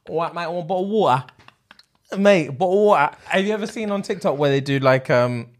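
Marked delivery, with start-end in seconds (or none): 0.1-3.2 jokey Cockney with dropped t's; mock Cockney accent. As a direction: put on a Cockney geezer, pitched up. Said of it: "it's more like a Cockney slang".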